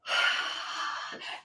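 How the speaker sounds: long, soft exhale; appreciative sigh. Real, not acted. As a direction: let out a soft sigh of admiration. Moved sigh after reading testimonial.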